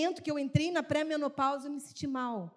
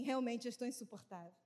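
quiet admission; 12 dB quieter than usual. Retold or imitated. Admitting it to daughters.

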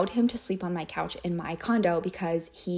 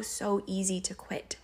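whispered; 4 dB quieter, slower than usual. Real, not acted. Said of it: "repeats the phrase two ways".

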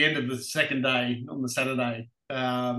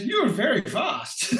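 laughing retold compliment; 10 semitones higher, slower than usual. Team manager compliments, laughing.

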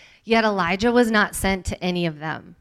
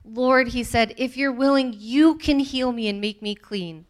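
begging; 5 semitones higher, 4 dB louder than usual. Acted. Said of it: "begging to be healed".

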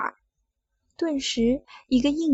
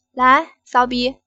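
slow loud command; 7 dB louder, slower than usual. Acted. Boss ordering her.

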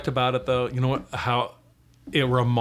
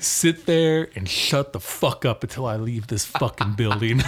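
mock threat; 2 semitones lower than usual. Finishing the theater threat.

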